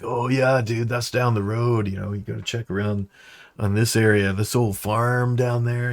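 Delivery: easygoing stoner giving directions; a hint of Spicoli; dude type voice. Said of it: "dude type voice".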